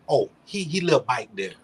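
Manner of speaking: country dialect. Retold or imitated. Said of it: "He say".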